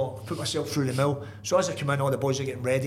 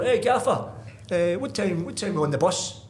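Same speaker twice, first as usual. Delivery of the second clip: raised call to get the boss's attention; 4 semitones higher than usual. Retold or imitated. Player calls across the dressing room to the gaffer, raised call. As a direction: shout it across the room, then settle.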